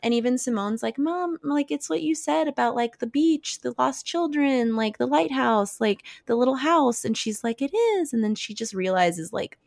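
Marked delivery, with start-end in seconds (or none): 1.0-7.0 raised pitch, a hint of a kid; lightly voiced child. Simone explaining to mom, lightly imitated child. 7.6-8.1 high, lightly acted wonder; retold realization. Mother answering Simone, retold wondering agreement.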